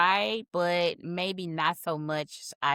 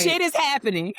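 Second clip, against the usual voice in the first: exasperated yell; 9 semitones higher, 7 dB louder than usual. Retold or imitated. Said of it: "I said".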